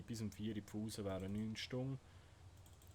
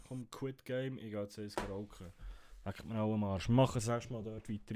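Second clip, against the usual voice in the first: annoyed; 6 dB louder than usual. Real, not acted. Quitting in anger.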